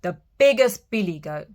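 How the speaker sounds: big goat announcing himself; loud big goat. Acted. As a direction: say it proudly and loud.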